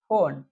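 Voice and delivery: फोन with a long o and silent final e. Shown as a demonstration. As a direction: say फोन with one long o sound. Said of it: "उसका उच्चारण ओ हो". (फोन में लंबा ओ स्वर)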